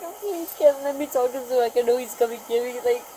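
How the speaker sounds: panicked, short-breathed pleading; hyperventilating, gasping between words. Real, not acted. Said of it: "I'm hyperventilating".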